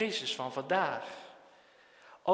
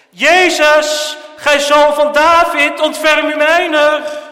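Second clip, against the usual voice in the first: loud, high, slow desperate cry; a blind beggar calling out to Jesus at the top of his voice; high, loud shout for mercy; 9 semitones higher, 17 dB louder, slower than usual. Acted. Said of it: "Hij begon te schreeuwen".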